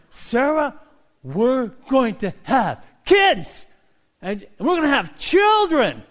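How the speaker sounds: put-on loud, high, slow joyful old husband; overjoyed shout. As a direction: shout the baby news to your wife. Abraham tells wife news.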